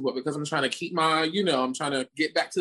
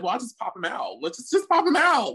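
casual quip; 5 semitones higher, faster than usual. Retold or imitated. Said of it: "I just said".

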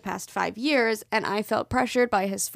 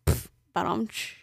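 rimshot sound; 2 semitones lower, 5 dB quieter, slower than usual. Pretend. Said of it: "what's up with the jokes?".

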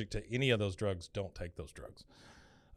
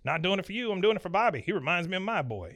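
higher-pitched blustery boss; brusque Buck; 7 semitones higher than usual. Retold or imitated. Buck correcting Hank about his motive, higher and brusque. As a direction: brush off the thanks, voice raised.

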